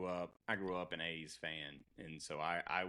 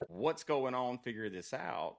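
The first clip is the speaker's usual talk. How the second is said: imitating a kid yelling at parents, higher and louder; raised-voice mock demand, pitched up; retold yelling; 7 semitones higher, 7 dB louder than usual. Kid to parents when the TV went out, retold yelling. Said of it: "I'm yelling at my parents".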